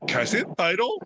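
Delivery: geeking out. Retold or imitated. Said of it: "I'm like".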